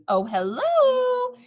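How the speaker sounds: high, slow innocent greeting; grandmother. Acted. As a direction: sound sweetly innocent.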